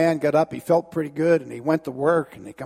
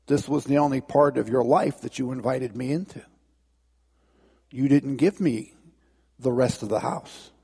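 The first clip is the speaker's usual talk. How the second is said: gentle Jesus, low; 6 semitones lower than usual. Acted. Jesus gently explains to the man.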